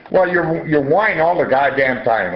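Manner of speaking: high, scolding accusation; angry husband. Retold or imitated.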